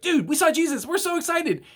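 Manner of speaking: valley-dude excitement; excited apostles. Retold or imitated. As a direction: blurt it out like overexcited friends. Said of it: "they're like".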